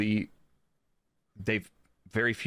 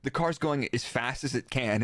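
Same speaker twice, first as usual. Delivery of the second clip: mock stubborn driver; 4 semitones higher than usual. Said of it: "my favorite saying is".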